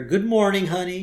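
a touch of coaxing, lifted in pitch; mock cheering-up. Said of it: "Trying to make her feel better".

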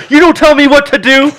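high, loud indignant shout; acted furious dad yell; angry yelling. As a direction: yell back in a quarrel. Dad yells back in retold quarrel.

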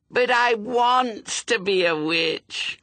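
put-on slow, very high little-girl wail. A narrator's reading. Little suspect protests to her sister, wailing. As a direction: protest in a drawn-out, loud childish whine. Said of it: "she wailed".

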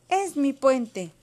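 slow, high, loud claim; triumphant shout. A narrator's reading. Race winner Pili claims the bridge, shouting. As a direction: stake your claim loudly, drawn out. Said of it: "gritó Pili".

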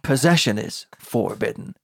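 "forbidden" said as "FOUR-bidden", set apart; Anakin's weird FORBIDDEN. Retold or imitated. Mocking how Anakin says it, "forbidden" as FOUR-bidden. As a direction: give "forbidden" a full "four" at the front. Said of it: "he says really weird is forbidden".

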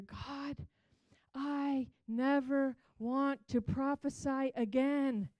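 loud, high, fast despairing cry to God; a young woman wailing her complaint to God; anguished prayer. Retold or imitated. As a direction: throw the prayer up in loud desperation. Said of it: "one side of my conversation with God".

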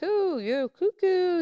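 high, slow teasing "cuckoo"; mocking tease. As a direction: poke fun at her, sing-song. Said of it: "I was like".

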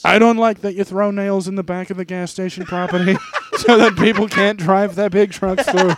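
lightly voiced complaining president; Donald Trump. Trump complains to Raj about nails, lightly voiced Trump. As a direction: scold the rival as a debating president. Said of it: "I'll do Trump".

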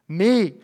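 "Me" punched on its own; stress on ME. Shown as a demonstration. Preacher names Saul's repeated word, stressing "Me". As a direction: hit a single emphatic "Me". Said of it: "I enunciated it".

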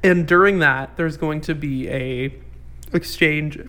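choking mid-sentence; choking while talking. Real, not acted. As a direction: talk through a choke. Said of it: "choking on my mouth while I was trying to talk".

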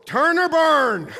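high, loud, slow hellfire slogan; mock fire-and-brimstone preacher. Pastor mocking a hellfire preacher to the congregation, hammed-up yell. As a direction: ham up the street-corner preacher.

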